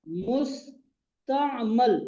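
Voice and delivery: मुस्तामल drawn out very slowly, mus-ta-mal with a short a in the last syllable; teacher modelling मुस्तामल, very slow and clear; careful pronunciation. Shown as a demonstration. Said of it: "तलफ्फुज दुरुस्त करना".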